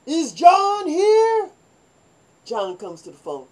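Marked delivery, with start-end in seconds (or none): 0.1-1.5 very high, loud, very slow echo; mock guard echo. Barracks guard echoing the caller, very high and slow. Guard repeats the girls' question.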